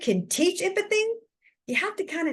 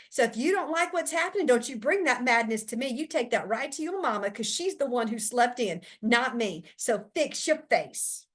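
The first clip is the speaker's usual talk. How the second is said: scolding teacher. Acted. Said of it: "Here's what this would look like".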